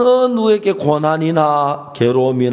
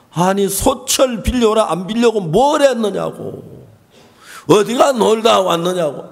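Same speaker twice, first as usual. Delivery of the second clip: higher-pitched telling-off of a wife; mock scolding; 4 semitones higher than usual. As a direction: act out a husband's indignant scolding. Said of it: "남편이 막 아내를 호통을 치는 거예요".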